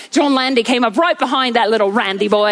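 playful, light Australian accent; hint of Australian twang, done for fun. Shown as a demonstration. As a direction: put on a bit of an Aussie accent. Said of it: "I love doing an Australian accent".

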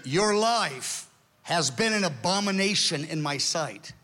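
slow, weighty divine verdict; thunderous voice of God. Retold or imitated. God rebuking a man outside the city, slow and solemn. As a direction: pronounce it slowly, as God's judgment. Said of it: "He hears the thunderous, audible voice of God".

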